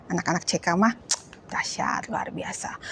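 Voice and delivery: hushed whispered praise. Real, not acted. Teacher whispering praise of the kids. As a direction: whisper it like a secret compliment.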